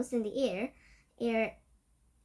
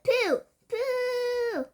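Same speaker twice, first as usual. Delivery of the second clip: disgusted cry; 13 semitones higher, 7 dB louder than usual. Acted. Witches disgusted by smell.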